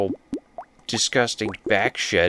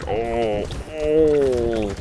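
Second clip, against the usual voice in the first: mock groans of despair; 3 semitones higher than usual. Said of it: "He's giving you the groans of despair".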